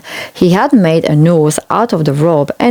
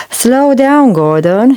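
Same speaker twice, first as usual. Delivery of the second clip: urgent call; 6 semitones higher, slower than usual. A narrator's reading. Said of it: "he said".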